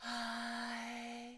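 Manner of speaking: airy, steady, drawn-out high hi led by H. Showing a learner a vocal exercise: breathy steady "hi". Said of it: "we are going for breathy I".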